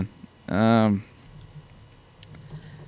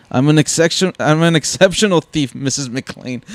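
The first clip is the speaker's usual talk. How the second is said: higher, louder imitation of a proud villain; Gruber; 5 semitones higher, 4 dB louder than usual. Villain correcting Holly's insult, imitated self-importance. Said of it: "It's just the way he's like".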